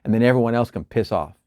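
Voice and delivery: quick, tossed-off imitation of selfish planning; mock self-serving boast. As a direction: reel it off dismissively, sinking as it goes. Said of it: "gonna get into this and go".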